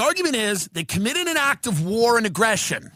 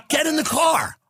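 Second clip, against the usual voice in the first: higher, pushier get in the car; eager command; 5 semitones higher than usual. Retold or imitated. Comic to a friend, eager urging. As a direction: urge them into the car. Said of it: "I said".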